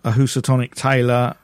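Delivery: "sailor" slurred to "tailor" through loose teeth; loose dentures. Real, not acted. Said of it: "Put your teeth in".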